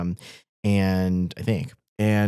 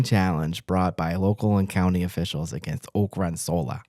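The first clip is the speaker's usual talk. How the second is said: put-on light Boston accent on the news read; news read with a mild Boston accent, dropped r's. Host reading the solar farm story to viewers in a light Boston accent. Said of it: "read part of this in a Boston accent".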